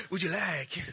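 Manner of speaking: lightly imitated waiter, mild; a faint mock server's offer; Brazilian waiter. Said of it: "somehow Brazilian guys are talking like".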